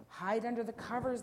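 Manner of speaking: lightly acted family alarm; wailing. A narrator's reading. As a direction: cry it out in mock panic. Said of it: "they all wailed".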